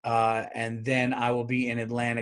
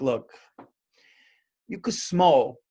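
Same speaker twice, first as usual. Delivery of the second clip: mock Italian wiseguy accent, rising to a shout at the end; 3 semitones higher than usual. Imagined Italian attorney general, mock Italian accent. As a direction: lean into a hammed-up Italian accent, easygoing but firm. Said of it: "If there was an Italian going like".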